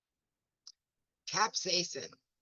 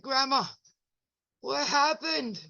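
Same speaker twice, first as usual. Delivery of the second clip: quoting herself; 8 semitones higher than usual. Retold or imitated. Asking confused grandma about powder, higher puzzled voice. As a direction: ask Grandma, mock bewildered. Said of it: "I'm like".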